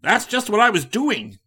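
high, loud and delighted; joyous. A narrator's reading. Likens answering Riley, joyous and loud. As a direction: beam with relief at finding him. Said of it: "said the man joyously".

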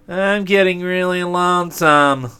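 drawn-out complaining demon; selfish demon voice. Acted. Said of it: "said the demon of selfishness".

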